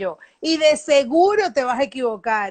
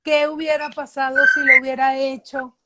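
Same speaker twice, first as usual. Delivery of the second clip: mild mock lament of regret; complaining. Coach imitating someone regretting a missed chance, mildly complaining. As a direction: act out a touch of wistful whining. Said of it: "y quejándote de que".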